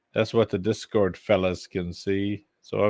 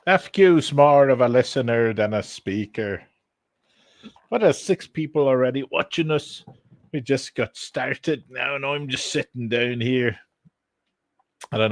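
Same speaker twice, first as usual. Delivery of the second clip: put-on Irish accent; 2 semitones higher, 4 dB louder than usual. Streamer greeting early viewers in a put-on Irish accent. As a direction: chat casually in an Irish accent. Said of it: "I'm talking with an Irish accent".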